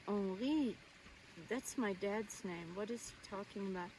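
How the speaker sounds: put-on hushed, bewildered child's wondering; puzzled inner thought. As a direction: drop to a quick, soft puzzled aside. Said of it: "And I thought".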